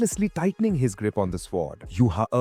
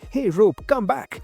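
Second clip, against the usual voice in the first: high-pitched call; raised, commanding summons; 8 semitones higher, 3 dB louder, slower than usual. Acted. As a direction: call after it sharply. Calling back the rope.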